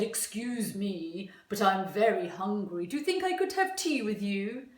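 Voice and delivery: a hint of a hungry, courteous tiger asking; the tiger politely asks Sophie's mummy for tea, lightly voiced. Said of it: "The tiger said".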